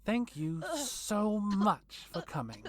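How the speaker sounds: vampire queen gloating over the intruders; menacing vampire queen. Acted. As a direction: toy with them like prey. Carmilla villain voice.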